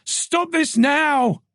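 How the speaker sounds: high, slow, drawn-out command; inner roar. Acted. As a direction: stop yourself hard. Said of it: "a roar that filled her ears".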